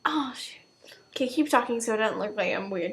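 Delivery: fast hushed whisper. Real, not acted. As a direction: whisper it quickly aside. Whispering aside while on camera.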